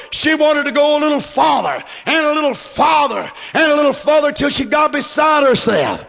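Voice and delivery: rising to a shout over the words; preacher climbing in fervour; building preaching shout. Acted. Preacher to his church, building to a shout.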